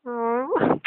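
high, drawn-out aww of delight; touched. Real, not acted. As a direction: gush sweetly, stretching it out and rising high. Touched by guest's excited compliment.

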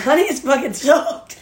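put-on loud little-kid line; mock toddler, cheeky; imitating toddler. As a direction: proudly blurt it like a toddler. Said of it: "Carly called us".

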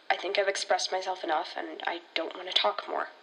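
tired, fading refusal; withdrawn and quiet. Acted. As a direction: close the door on the talk. Shutting down the conversation.

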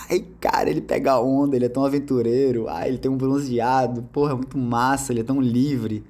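breathy excited "Ai, cara" then swooning praise; a hint of a smitten girlfriend; gushing girlfriend. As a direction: play an infatuated girlfriend raving about her boyfriend. Girlfriend gushing about surfer.

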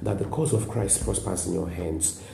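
soft, earnest prayer for the congregation; closing prayer. Real, not acted. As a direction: pray over them gently, winding down to amen. Pastor prays for the listeners.

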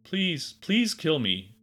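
high-pitched pleading moan; high, falling, pitiful begging; moaning parrot. A narrator's reading. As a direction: moan the plea in a high bird voice. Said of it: "Alfredo moaned softly".

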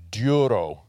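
duro with a rolled R. Shown as a demonstration. Pastor teaching the congregation the Greek word, rolled R. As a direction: roll the R in duro. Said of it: "You gotta roll the R".

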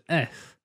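"F" said as a lisped "ess", tongue tip down. Shown as a demonstration. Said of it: "have a lisp if the tongue goes down".

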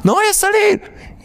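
high, pleading refusal; scared husband. Acted. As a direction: squeak it out from under the bed. Husband hiding under bed.

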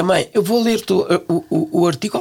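a hint of an eager grown son; imitating her son. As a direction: play the son calling his mother early. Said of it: "e dizia".

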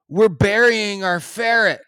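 high, loud mock protest; retold desperate explanation. Digger explains himself to the angry neighbour, retold desperate. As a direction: call it out as a pleading excuse.

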